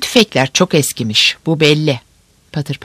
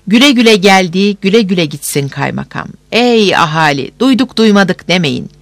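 town crier. Acted. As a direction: call it out to the whole square.

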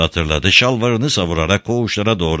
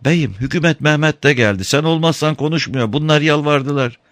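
high voiced old woman asking; timid old woman at the door; old woman's voice; 9 semitones higher than usual. A narrator's reading.

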